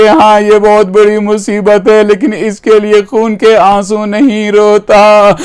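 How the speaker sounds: understated weeping, plaintive cadence; tearful answer. Retold or imitated. Preacher voicing the Imam's answer to his questioner, mildly tearful. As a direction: answer with a touch of tears. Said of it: "مولا روتے ہوئے کہتے".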